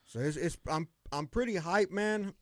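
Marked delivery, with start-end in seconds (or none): 1.1-2.3 hyped but trying to hold it in; real hyped. Real, not acted. Fan excited about his team's chances, hyped. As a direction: pitch lifting with excitement. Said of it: "Now you getting real hype".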